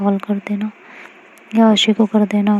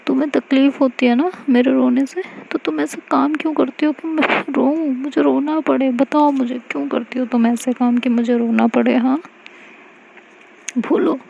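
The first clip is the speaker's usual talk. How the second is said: higher, pressing accusing questions; hurt demanding girlfriend; 4 semitones higher than usual. Acted. Mayra to Aashi, hurt demanding questions. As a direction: make her answer you, wounded.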